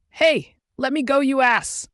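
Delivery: high, loud shriek of protest. A narrator's reading. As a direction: shriek it out, demanding release. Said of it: "She shrieks as she pounds".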